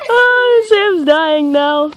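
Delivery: cry-laughing, slow. Real, not acted. Laughing at sour challenge.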